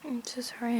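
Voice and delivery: words stretched by a yawn. Real, not acted. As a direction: say it mid-yawn, apologetic. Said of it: "I'm yawning".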